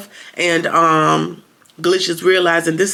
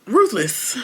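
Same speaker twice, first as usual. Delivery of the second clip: whisper; 5 semitones higher than usual. Acted. Whispered show title intro.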